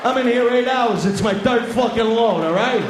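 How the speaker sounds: worn-out McDonald's worker snapping at the customer, annoyed; fed-up worker. Retold or imitated.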